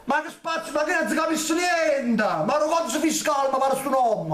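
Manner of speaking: exasperated shout. Real, not acted. Exasperated at garbled name.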